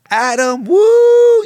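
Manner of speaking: high loud cheer woo. Retold or imitated. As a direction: whoop like a rowdy crowd. Addicts cheering for him.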